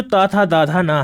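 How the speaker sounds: ता था दा धा ना run together, tongue touching upper teeth; dental consonants recited. Shown as a demonstration. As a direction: rattle off ता, था, दा, धा, ना as a demo. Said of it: "इनको देखिए आप बोलकर देखिए". (दंत व्यंजन जल्दी से बोलना)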